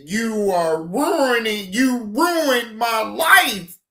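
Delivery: mock-wailing, slow and drawn out; mocking the man. Retelling the man's plea to viewers, a slow mock wail. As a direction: ham up his crying plea. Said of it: "and he said".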